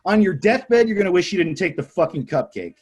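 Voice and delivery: high, loud mock-desperate urging; exasperated plea. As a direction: plead with them as if everything hangs on it. Inner plea to coworkers taking cupcakes.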